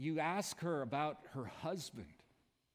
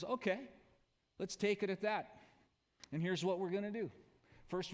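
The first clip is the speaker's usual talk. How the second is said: firm challenge. Pretend. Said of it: "when he says".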